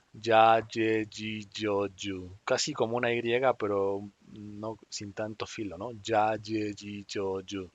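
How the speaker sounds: ordinary talk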